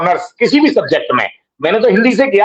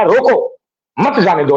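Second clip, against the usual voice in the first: रोको rising, a break, then मत जाने दो falling together; pause after रोको. Shown as a demonstration. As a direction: split off रोको, join मत to जाने दो. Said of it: "एक कॉमा लगने पे". (रोको के बाद विराम, मत जाने दो साथ में)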